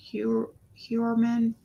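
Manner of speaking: Heuermann sounded out slowly from "hyoo"; tentative pronunciation. Shown as a demonstration. Vlogger retrying a surname, slow tentative pronunciation of Heuermann. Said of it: "I guess you pronounce it".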